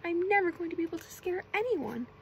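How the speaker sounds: lightly acted storybook despair; mock crying complaint. A narrator's reading. SpongeBob giving up on scaring anyone, mock crying. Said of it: "SpongeBob started to cry".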